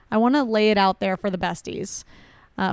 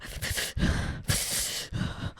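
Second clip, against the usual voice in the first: heavy blown-out breaths; demonstrated steadying breaths; 10 dB quieter than usual. Retold or imitated. Showing friend how she breathed after falling, heavy steadying puffs. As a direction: puff out air to hold back tears. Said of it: "I'm just doing this".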